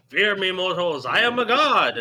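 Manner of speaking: megalomaniac rant. Acted. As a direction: shout it like a mad deity. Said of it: "be like".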